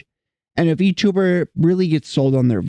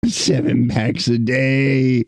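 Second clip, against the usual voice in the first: smoker voice; 3 semitones lower, slower than usual. Pretend. Slow smoker-voice joke.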